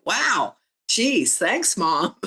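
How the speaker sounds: high, stunned wow and thanks; shocked thanks. Retold or imitated. Daughter floored by her mom's first compliment, high and stunned. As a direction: act floored by a rare compliment. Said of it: "I was so shocked I got a compliment".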